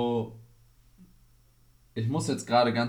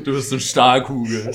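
laughing; 8 dB louder than usual. Real, not acted. Teasing friend, laughing.

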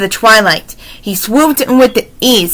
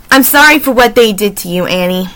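softly; faster than usual. Acted. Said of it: "said softly to the raven".

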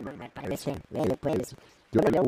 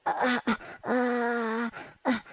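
robot voice; 7 semitones higher than usual. Acted. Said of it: "¿Qué pasa con mi voz?".

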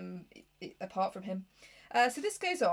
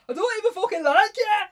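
loud, higher, sobbing mock outburst; mock wail; 10 semitones higher, 12 dB louder than usual. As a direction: wail it like a tantrum. Mock outburst of Rochester's feelings.

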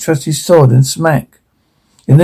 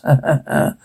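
laughing; 8 dB quieter than usual. Acted. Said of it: "He laughed".

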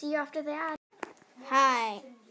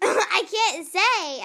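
laughing; 7 semitones higher, 11 dB louder, much slower than usual. Real, not acted. Laughing refusal to repeat word.

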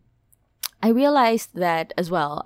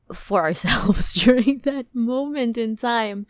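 whisper; 4 semitones higher, 4 dB louder than usual. Real, not acted. Whispered aside.

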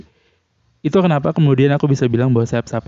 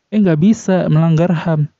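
know-it-all neighbour; 4 semitones higher, slower than usual. Retold or imitated. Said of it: "Orang sebelahku jawab itu".

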